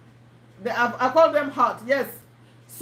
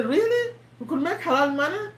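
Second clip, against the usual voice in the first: mock amazement, pitched much higher on Really; surprised prospect; 4 semitones higher than usual. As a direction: imitate a buyer who can't believe it. Prospect reacts to halal money.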